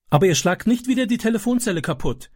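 put-on high, timid child's question; anxious boy's high voice. A narrator's reading. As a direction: ask it nervously, like a scared boy. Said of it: "fragte Francis ängstlich".

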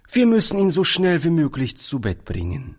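obliging, with the voice lifted; friendly. A narrator's reading. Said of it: "antwortete der Arzt freundlich".

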